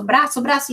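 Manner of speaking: BRAÇO twice, quick and joined up; blended word. Shown as a demonstration. Teacher showing pupils improving, blended naturally. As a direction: say braço smoothly, no gap at the br. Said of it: "e aí eles vão melhorando".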